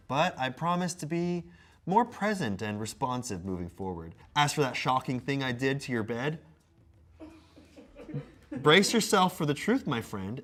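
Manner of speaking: mock-earnest apology read; measured comic recitation; letter read aloud. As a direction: read a scripted apology with playful theatre.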